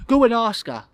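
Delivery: high, loud urging; boy's voice. Acted. Boy urging guest to approach crush, loud child's voice. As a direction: push him on like a bossy lad.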